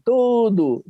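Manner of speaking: man in the crowd shouting Tudo, hammed-up yell; retold shout. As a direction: toss out Tudo like a heckler from the back. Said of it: "O cara gritou lá assim".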